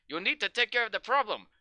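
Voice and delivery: lightly faked Mexican accent that slips. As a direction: imitate an actor losing his Mexican accent. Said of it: "he'll have his accent half the time".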